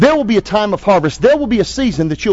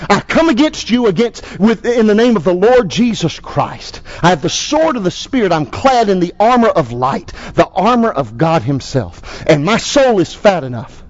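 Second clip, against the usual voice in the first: bold declaration. Shown as a demonstration. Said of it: "and say".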